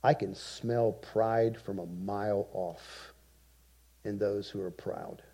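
low, slow, hushed near-whisper; hushed voice of God. Retold or imitated. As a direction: speak it softly and slowly, almost whispered. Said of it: "And he says".

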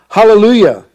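ringing scripture-reading acclamation; crying out. A narrator's reading. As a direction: proclaim it like a crowd crying out in worship. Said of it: "once more they cried out".

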